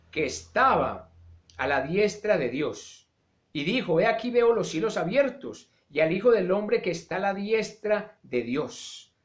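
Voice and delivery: measured, solemn Bible reading; scripture reading. Acted. Preacher reading Acts to the congregation, solemn. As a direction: read the passage with weight. Rereads the passage.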